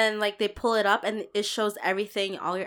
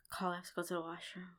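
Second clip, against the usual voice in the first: much softer, lower aside; discreet murmur; 4 semitones lower, 16 dB quieter, faster than usual. Retold or imitated. Telling Carl at dinner mid-meal, discreet murmur. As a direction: confide it urgently under the breath.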